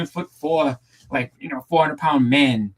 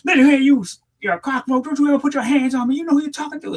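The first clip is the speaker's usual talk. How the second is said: imitating Bad News Brown's threat, pitched up; imitating a menacing tough guy; 13 semitones higher than usual. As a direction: ham up a wrestler's menace. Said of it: "He's just like".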